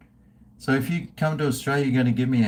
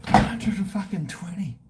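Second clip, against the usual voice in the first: incredulous exclamation; 7 semitones higher than usual. Real, not acted. Stunned at cheap house prices.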